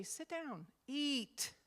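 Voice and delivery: impatient host snapping at a guest. Shown as a demonstration. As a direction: sound fed up and rushed.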